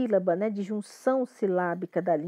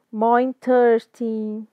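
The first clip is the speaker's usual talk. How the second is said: slow model of more interesting; slow teaching read; 4 dB louder, slower than usual. Shown as a demonstration. Teacher reading a phrase slowly for students. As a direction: draw each word out for the class. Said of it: "Deixa eu consertar meu interesting aqui".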